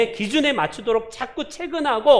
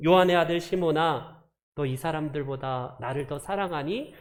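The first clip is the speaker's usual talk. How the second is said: gentle question; 5 semitones lower, 3 dB quieter than usual. Retold or imitated. Jesus speaks gently to Peter.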